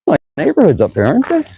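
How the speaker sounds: winded after pushing the bike uphill; puffing between words; out of breath. Real, not acted. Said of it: "I'm gonna catch my breath".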